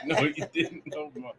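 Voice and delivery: breathless whisper of disbelief; whispered shock. Real, not acted. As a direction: whisper it, scandalized. Shocked reaction.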